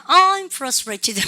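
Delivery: "I'm frustrated" drawn out with a falling end; very frustrated intonation. Shown as a demonstration. Teacher echoes the very frustrated recorded speaker, exaggerated frustrated intonation. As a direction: act out strong frustration on "I'm frustrated", slowly. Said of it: "아주 많이 답답해하네".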